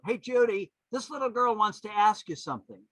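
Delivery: loud, high call to the stage; imitated yell. Woman in the audience to Judy, high imitated yell. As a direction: call out over a crowd, imitating an audience member. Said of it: "this woman on the tape yell out".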